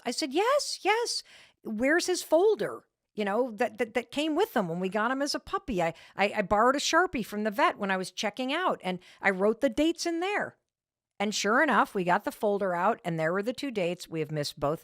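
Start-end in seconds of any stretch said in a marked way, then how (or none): 0.3-10.5 high, rushed scramble to explain; scramble, trying to save face; wife defending herself to husband, flustered and high; flustered self-defense. Retold or imitated. Her own flustered defense, retold.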